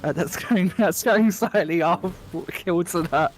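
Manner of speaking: amused at own voice. Real, not acted. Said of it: "that voice".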